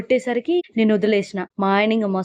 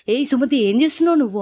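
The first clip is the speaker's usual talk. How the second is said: higher, louder rebuke; stern shout; 5 semitones higher, 4 dB louder than usual. Retold or imitated. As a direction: snap her out of it with a sharp yell. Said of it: "గట్టిగా అరిచి".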